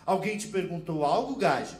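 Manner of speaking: Portuguese woman snapping back at a stranger; mock Portuguese accent. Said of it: "comentou já brigando".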